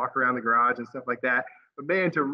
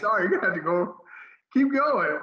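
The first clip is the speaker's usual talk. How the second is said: rushed mock dismissive voice; 6 semitones higher than usual.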